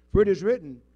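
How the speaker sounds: loud punch on For, like a trap springing; spring the scripture on him; sudden loud quote. Acted. Satan quoting scripture.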